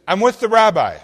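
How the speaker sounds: eager, high and loud, can't hold back; excited caller who can't wait. Retold or imitated. Excited wife on phone.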